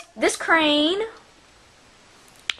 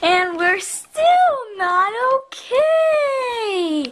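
mock crying; 3 semitones higher, slower than usual. Kid's toy playing stranded.

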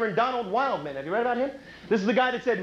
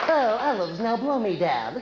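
Popeye; slower than usual. Acted. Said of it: "my impression of Popeye".

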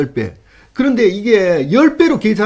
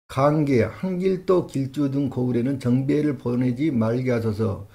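reading a document aloud; 5 semitones lower, 6 dB quieter than usual. Acted. Reading royal memorial aloud.

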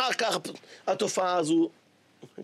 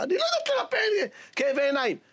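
laughing woman; 9 semitones higher than usual. Acted. Woman answers the rabbi.

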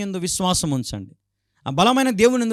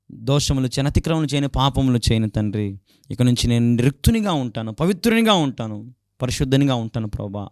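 prayer; 4 semitones lower than usual. Shown as a demonstration. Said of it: "అని అడగండి".

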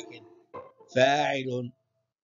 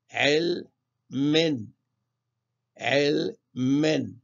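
علم drawn out very slowly with its nunation; slow tanween drill; much slower than usual. Shown as a demonstration. Teacher drawing out علم to show the tanween as a nun, very slowly. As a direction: stretch علم so the final nun is heard. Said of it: "الميم عليها تنوين".

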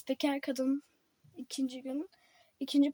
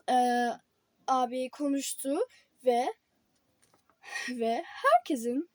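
reading headlines like an anchor; newscaster voice. Pretend. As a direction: pretend TV news read. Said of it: "tam bir spiker gibi konuştum". (haber spikeri gibi)

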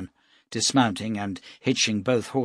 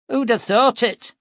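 higher, louder, marvelling; amazed exclamation; 12 semitones higher, 6 dB louder than usual. Acted. Nestor to the captain, amazed at the preacher. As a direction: throw it out in astonishment.

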